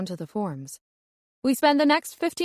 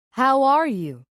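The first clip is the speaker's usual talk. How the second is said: put-on How are you? in a crisp American accent, louder and higher; 5 semitones higher, 4 dB louder, slower than usual. The speaker demonstrates Americans, American accent. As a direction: show off a near-perfect American accent. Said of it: "now using an almost perfect American accent".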